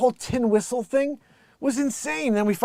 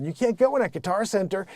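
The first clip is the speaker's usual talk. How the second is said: raised, insistent hard sell; boastful sales pitch; 4 semitones higher, 3 dB louder than usual. Real, not acted. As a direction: build to a loud, proud claim. Ranting sales boast about his patent.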